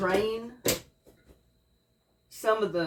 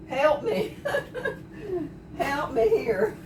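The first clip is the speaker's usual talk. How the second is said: higher, laughing through tears; laugh-crying; 8 semitones higher, slower than usual. Real, not acted. Cook begging viewers for help, laughing and teary. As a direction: plead through laughter and watery eyes. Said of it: "I'm crying".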